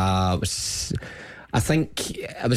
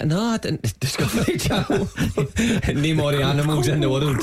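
high-pitched laughter between words; laughing; 5 semitones higher than usual. Real, not acted. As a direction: crack up at the memory. Recalling silly initiation.

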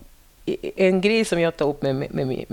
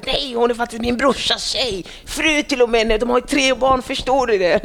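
louder, indignant protest; a touch of an upset sister defending her brother's wife; upset sister-in-law; 5 semitones higher, 3 dB louder than usual. Retold or imitated. Sister-in-law scolds the friends, mildly indignant. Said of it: "Då blir hon arg".

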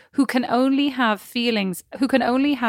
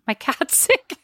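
mocking laugh; 5 semitones higher, slower than usual. Mocking the excuse.

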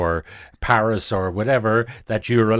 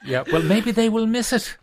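high laughing reply, amused; 12 semitones higher than usual. Real, not acted. Host laughing back at the guest's cheeky hint, high and laughing. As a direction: laugh the words out, pitch way up. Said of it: "Hint, hint".

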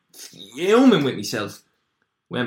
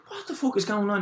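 retold bewilderment; 10 semitones higher, 3 dB quieter than usual. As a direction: act out baffled protest, pitch jumping up. Torch put up his nose.

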